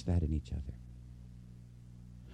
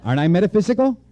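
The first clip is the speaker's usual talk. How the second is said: laughing; 8 semitones higher, 7 dB louder, faster than usual. Real, not acted. Self-mocking joke to audience.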